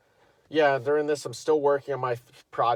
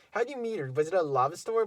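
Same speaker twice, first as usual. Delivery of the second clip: mock girly question; 6 semitones higher than usual. Girl trolling the teacher.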